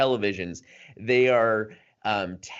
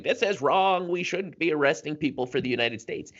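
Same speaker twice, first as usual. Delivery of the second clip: much higher, fast, indignant protester voice; indignant Canadian; 6 semitones higher, faster than usual. Retold or imitated. Host voices a random Canadian protester, indignant and high. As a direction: play an outraged ordinary Canadian. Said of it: "just your random Canadian going".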